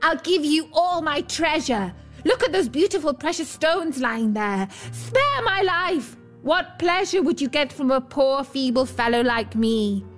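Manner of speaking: high, desperate storybook begging; terrified pleading. A narrator's reading. Dwarf begging the bear to spare his life, terrified pleading. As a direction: plead high, peaking on each cry for mercy. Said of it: "Then he cried in terror".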